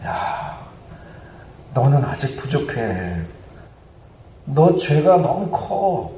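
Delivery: mostly hushed, insinuating voice of a tempter; Satan's whispering. Acted. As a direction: murmur doubts into someone's ear. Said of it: "우리 귀에 속삭입니다".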